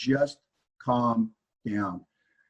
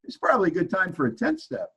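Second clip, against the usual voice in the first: small, higher voice of conscience; little inner voice; 5 semitones higher than usual. Retold or imitated. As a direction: pipe up lightly like a sponsor in his head. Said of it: "this little voice perks up".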